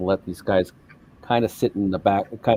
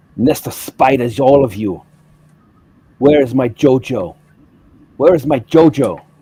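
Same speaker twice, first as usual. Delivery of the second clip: high, loud, furious angry screech; 5 semitones higher, 8 dB louder than usual. Narrating a game scene, voicing a female Gungan who bursts in, screaming. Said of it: "So she's screaming".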